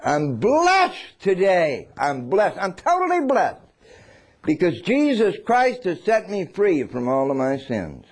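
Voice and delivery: beaming, unashamed witness; joyful testimony. Shown as a demonstration. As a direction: say it like good news you can't hold in. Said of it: "Tell him".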